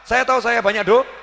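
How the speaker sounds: pleading prayer. Retold or imitated. Fervent prayer voiced.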